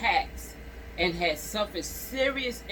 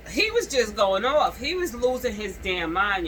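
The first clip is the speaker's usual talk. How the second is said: worked up; 3 semitones higher, 5 dB louder than usual. Real, not acted. Outraged commentary on the attack.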